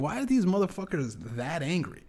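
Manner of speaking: ordinary delivery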